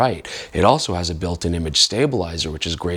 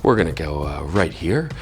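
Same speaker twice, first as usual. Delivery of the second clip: late night radio voice; 2 semitones lower than usual. Real, not acted. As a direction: invite them in like a night DJ. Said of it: "my late night radio voice".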